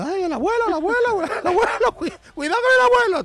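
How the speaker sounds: high, loud alarmed cries; panicked shouting. Retold or imitated. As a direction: yell in a panic for grandpa. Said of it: "todo el mundo allí gritando".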